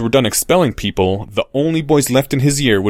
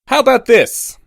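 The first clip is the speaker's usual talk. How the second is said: much higher, loud call; loudly; 12 semitones higher, 4 dB louder than usual. Acted. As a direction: announce it to the whole crowd. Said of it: "Harry said loudly".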